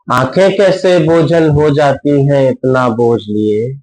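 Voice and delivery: measured mushaira-style verse reading; ghazal recitation. Acted. Poet presents a ghazal to a listening audience, measured recitation. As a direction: recite each line in rhythmic, sustained phrases.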